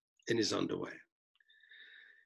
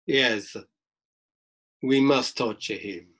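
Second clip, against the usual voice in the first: deliberate, hammed-up Italian-accented Pope; bad Italian accent. Lecturer plays the robed Pope ordering torture, bad Italian accent. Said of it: "It's as bad as my Russian accent".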